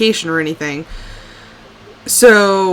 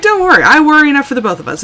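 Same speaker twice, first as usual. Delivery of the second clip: mock breezy reassurance; 6 semitones higher, 6 dB louder, much faster than usual. Joking reassurance to her husband.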